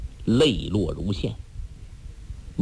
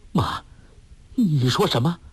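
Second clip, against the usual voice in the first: trembling voice; 6 semitones higher than usual. Acted. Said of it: "颤声说".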